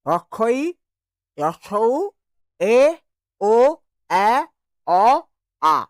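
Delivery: the vowels রস্বই, রস্বউ, এ, ও, এ, অ, আ said one by one, each short and separate; vowel series demo. Shown as a demonstration. Teacher modelling the full vowel ladder for the class. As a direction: run through the vowel series slowly. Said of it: "এরকমভাবে উচ্চারণ করো".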